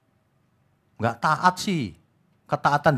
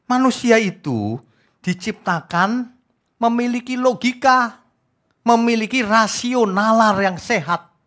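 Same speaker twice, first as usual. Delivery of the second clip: higher and slow, each phrase weighed; slow emphatic preaching; 7 semitones higher, slower than usual. Real, not acted. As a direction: preach it word by word, drawing out "Manusia". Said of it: "preaching emphasis". (khotbah lambat dan tegas, tiap frasa ditekan)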